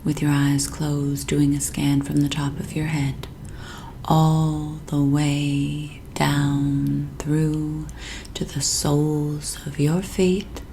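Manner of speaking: soothing, unhurried hypnotist voice with long pauses; sleep hypnosis induction. Acted. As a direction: lull the listener gently down into sleep.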